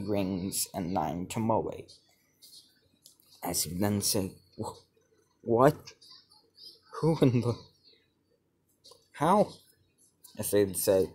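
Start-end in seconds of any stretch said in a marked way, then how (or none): 4.6-9.5 high, loud stammering disbelief; higher and louder with each broken question; shocked. Acted. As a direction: sputter in total shock. Shocked at his new eyes.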